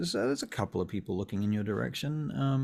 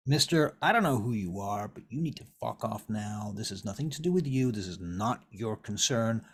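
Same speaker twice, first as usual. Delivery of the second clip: confrontational. Acted. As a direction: tell an intruder to back off. Vern confronts Garwood.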